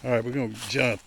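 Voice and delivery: normal talking voice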